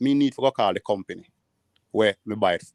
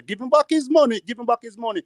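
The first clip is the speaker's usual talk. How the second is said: lightly voiced old man; 11 semitones higher than usual. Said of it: "I pass and I push her cart and hear the situation and say".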